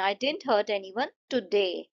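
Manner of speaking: "today" drawn out and stressed at the end; slow sentence, weight saved for "today". Shown as a demonstration. Teacher's fifth example for students, stress on "today". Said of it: "उसमें हम today पे focus कर रहे हैं".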